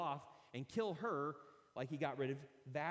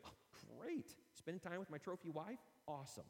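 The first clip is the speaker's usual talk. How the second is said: sarcastic king; 7 dB quieter than usual. Acted. King grumbles about a dinner.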